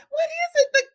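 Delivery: high, halting questions ending loud; baffled guessing. Retold or imitated. Mom trying to figure out the boy's smell, baffled. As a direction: guess haltingly, then burst out bewildered. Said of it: "I'm trying to figure it out".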